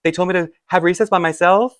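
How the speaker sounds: imitated gasping sobs. Upset child explaining to the French teacher, imitated gasping sobs. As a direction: gasp out each phrase, imitating an upset kid. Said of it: "through gas, being like".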